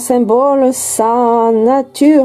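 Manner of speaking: dreamy recital of booklet text; poetic reading. Acted.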